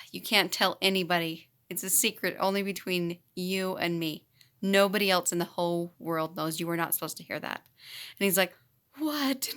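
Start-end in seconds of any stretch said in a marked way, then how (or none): 0.1-7.6 mock serious. Teacher swearing a little boy to secrecy, mock serious. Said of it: "I got really serious". 9.0-9.5 higher, soft incredulous what; amazed child. Retold or imitated. Little boy reacting to teacher's secret, mock amazement.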